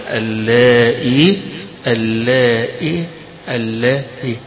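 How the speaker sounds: اللائي said slowly three ways, varying the hamza and the yā'; three readings. Shown as a demonstration. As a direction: recite اللائي three times. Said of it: "تبقى عارف إن هذه فيها".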